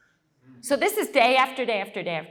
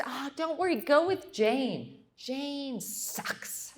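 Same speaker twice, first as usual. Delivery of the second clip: retold teasing friend; 7 semitones higher, 4 dB quieter, slower than usual. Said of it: "she says".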